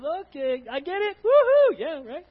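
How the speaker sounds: high mock woohoo; half-hearted mock cheer; lightly mocking excitement. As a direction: play along with their cheering. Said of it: "He says".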